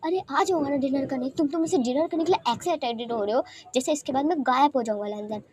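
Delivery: playful scolding, pitch lifting; mock-angry. Wing on the phone to Lanzan, mock-angry. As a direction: threaten lightly while secretly enjoying the attention. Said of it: "reaction तो गुस्से वाले दे रहा था".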